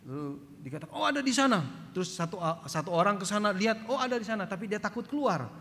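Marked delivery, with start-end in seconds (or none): 0.9-1.9 imitated calling out. Gang member calls out location. 3.9-4.4 imitated calling out. Gang member calls out location.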